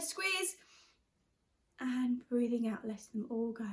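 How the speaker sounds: calm meditation guide, coaching the breath; guided meditation. Acted. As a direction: lead the children gently through each squeeze. Leads a squeeze-and-relax meditation.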